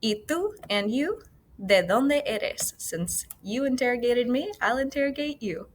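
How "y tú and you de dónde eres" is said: firing back. Acted. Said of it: "she's gonna fire back at him".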